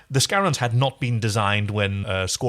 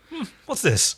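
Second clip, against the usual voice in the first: confused hmm; 11 semitones higher than usual. Retold or imitated. Erin's confused reaction voiced.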